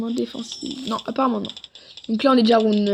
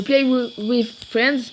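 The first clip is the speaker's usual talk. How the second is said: English with a French accent; real French accent on English words; catastrophic English accent; much slower than usual. Real, not acted. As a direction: say it like a French speaker mangling English. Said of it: "excusez-moi pour mon accent anglais qui est vraiment catastrophique".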